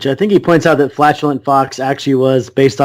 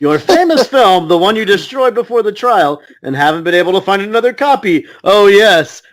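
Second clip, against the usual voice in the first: mock incredulous; 2 semitones higher than usual. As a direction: taunt the other side with theatrical emphasis. Acted mocking courtroom lawyer's question.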